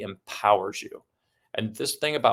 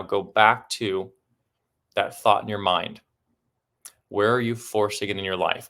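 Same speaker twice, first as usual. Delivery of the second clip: guided meditation. Acted. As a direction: ease them back into the thought. Guides into reflection.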